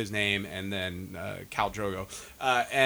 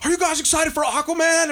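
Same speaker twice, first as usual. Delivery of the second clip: hyping the crowd; 13 semitones higher, 3 dB louder than usual. Retold or imitated. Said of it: "And he's like".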